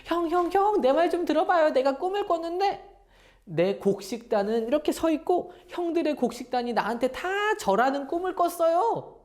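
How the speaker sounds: put-on high-pitched, amazed kid sharing a dream; eager, wonderstruck little-brother voice; excited young Joseph. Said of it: "너무나 신기해서 형들에게 막 가서 말했어요".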